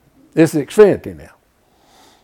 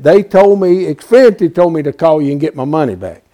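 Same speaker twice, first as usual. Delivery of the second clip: angry retold demand; 7 dB louder than usual. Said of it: "I'm loud by now".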